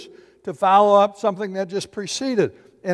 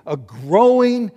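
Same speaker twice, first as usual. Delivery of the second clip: rising insistence; 6 dB louder than usual. Shown as a demonstration. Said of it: "his voice is raising".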